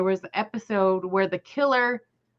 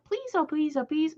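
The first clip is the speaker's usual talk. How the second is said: pleading; 5 semitones higher, 6 dB quieter than usual. Real, not acted. Begging viewer for help.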